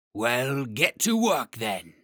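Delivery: very slow, heavy dragon. Acted. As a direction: drag each word out like a great beast. Dragon orders work.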